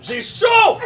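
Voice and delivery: voix plus haute, qui se plaint; gémir qu'on a trop chaud; plainte aiguë. Acted. Improv, character overheating. (se plaindre de la chaleur)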